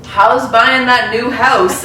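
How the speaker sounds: slow, flat-faced jab; deadpan. Retold or imitated. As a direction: deliver the dig dead straight. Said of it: "look me deadpan in the face and go".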